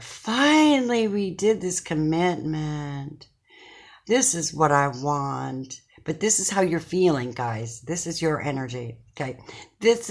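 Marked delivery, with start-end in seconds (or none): 0.0-5.8 relieved happy couple. Retold or imitated. Reader voicing the couple on the wedding card, slow and relieved. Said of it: "They're like".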